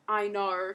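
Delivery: botched Australian "I know"; "I know" with an overdone r on the end; wrong Aussie O. Shown as a demonstration. Tutor showing learners what to avoid, wrong r-heavy O. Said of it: "it's not".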